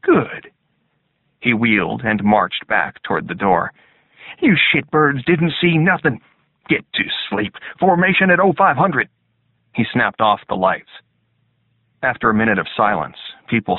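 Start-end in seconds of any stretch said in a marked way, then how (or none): 0.0-0.5 gruff drill sergeant. A narrator's reading. Sergeant answers. 4.4-9.1 gruff drill sergeant. A narrator's reading. Sergeant orders recruits.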